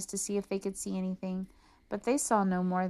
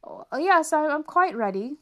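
much higher, louder, stammering grand praise; pompous emperor; 8 semitones higher, 8 dB louder than usual. Acted. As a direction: bluff approval, flustered.

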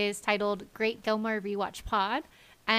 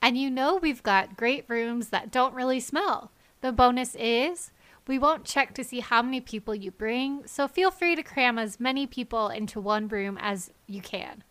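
ad read. Acted. Fake motel ad read.

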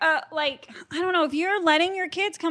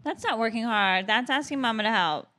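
lightly voiced dog-talk, coaxing the pet. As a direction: coax the dog like a pet owner. Talking to her dog.

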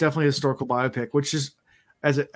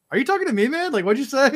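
higher, louder, mock incredulous challenge; a half-joking "say that again?" comeback; mock confronted; 12 semitones higher, 5 dB louder, faster than usual. Retelling the drunk moviegoer clash, higher and louder mock challenge. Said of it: "I was like".

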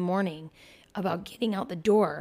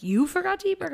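higher, disbelieving echo; incredulous mock question; 10 semitones higher, faster than usual. Mother echoing her daughter's excuse in disbelief. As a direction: toss it back in mock disbelief.

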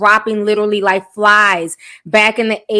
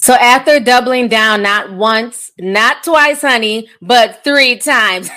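bootleg Count Dracula voice; slow, hammed-up vampire count; Transylvanian accent; slower than usual. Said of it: "That's my bootleg count voice".

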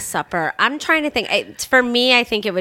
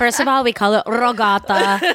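put-on Italian American accent; 3 semitones higher than usual. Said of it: "You're so Italian".

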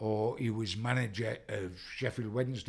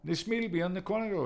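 imitating Jack Charlton; 10 semitones higher than usual. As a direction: draw it out high like a tight old gaffer. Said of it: "He said".

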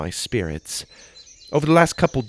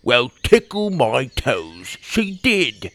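lightly voiced frog friend; 2 semitones higher, slower than usual. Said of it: "Tim smiled".

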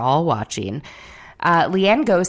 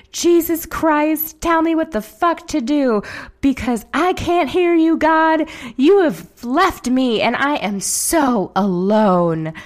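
much higher, louder imitated wail; mock meltdown wail; 11 semitones higher, 6 dB louder than usual. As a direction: ham up a toddler-like meltdown cry to God. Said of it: "on the floor shouting".

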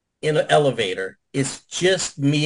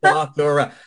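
stunned disbelief; 6 dB louder, much slower than usual. Retold or imitated. Reacting to being forgiven.

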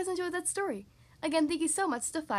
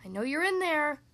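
lightly voiced rumbling creature; a firm, louder hint of a rumble; rumbling deep voice; 4 dB louder than usual. Unseen dragon to someone hiding in a bush, lightly rumbled. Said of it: "rumbled a deep voice".

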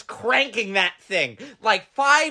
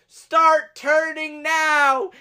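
shouted command; 7 semitones higher, 4 dB louder, much slower than usual. Retold or imitated. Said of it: "they go".

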